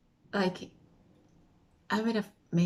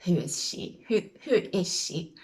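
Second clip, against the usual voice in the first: lightly voiced puzzled crowd; a hint of nosy queue whispers turned aloud; staring onlookers. Queue staring at the guest-list arrival, lightly mimicked puzzlement. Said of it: "everyone's just sort of still staring at me like".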